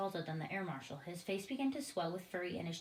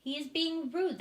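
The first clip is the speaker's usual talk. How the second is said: high, loud offended outburst; affronted air marshal protesting; loud indignant protest; 8 semitones higher, 8 dB louder than usual. A narrator's reading. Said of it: "the head of the Air Force said".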